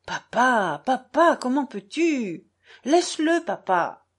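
put-on high pleading cries of a boy; a son begging his father to stop; boy crying out. Boy to father, high pleading cry. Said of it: "cria le garçon".

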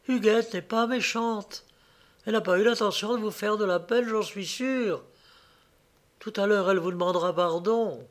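petite voix plus haute, douce et conciliante; rassurante. A narrator's reading. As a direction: plaider doucement pour le consoler. Marie le rassure. (douce voix rassurante)

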